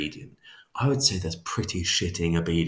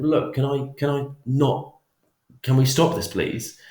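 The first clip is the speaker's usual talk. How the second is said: higher, urgent pleading plea to stop; pleading subject; 6 semitones higher than usual. Retold or imitated. Stressed subject begs experimenter to stop, pleading higher. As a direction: beg the experimenter to let you stop.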